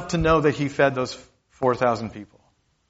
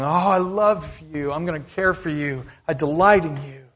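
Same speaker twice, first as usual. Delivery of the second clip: higher-pitched affectionate gushing; loving delight; 4 semitones higher than usual. Acted. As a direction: voice tender delight in someone dear. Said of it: "what is the emotional response of Jesus to me".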